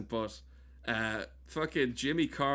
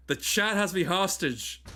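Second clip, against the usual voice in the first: mock alarm; 7 semitones higher, 5 dB louder than usual. Joking about hijack.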